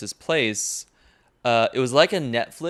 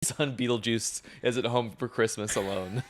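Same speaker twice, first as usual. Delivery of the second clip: Catherine O'Hara impression; 5 dB quieter than usual. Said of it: "that's Catherine O'Hare saying Beetlejuice".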